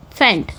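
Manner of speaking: फेंट slowly said on its own; separated syllable. Shown as a demonstration. Teacher sounds out elephant's last part, slowly, on its own. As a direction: give फेंट as one detached, drawn-out beat. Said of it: "ये आपके polysyllabic हो गए".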